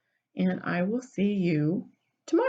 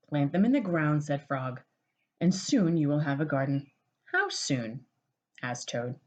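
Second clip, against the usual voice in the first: gentle storybook read-aloud; cozy picture-book narration; reading to children. A narrator's reading.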